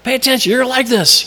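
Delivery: whisper-like lure from the flesh; temptation's voice. Pretend. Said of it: "It's saying".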